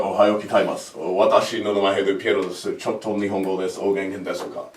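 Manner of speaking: lightly acted Japanese, softening toward the end; speaking Japanese. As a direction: slip into modest, low-key Japanese. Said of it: "I was speaking Japanese".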